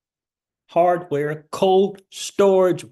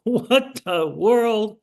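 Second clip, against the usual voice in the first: laughing disbelief; 5 semitones higher, much slower than usual. Real, not acted. Stunned by market crash.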